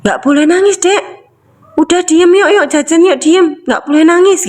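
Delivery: put-on high, urgent hushing of a child; scolding parent. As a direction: imitate a parent shushing a crying child. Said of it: "Kalau nangis dimarahin".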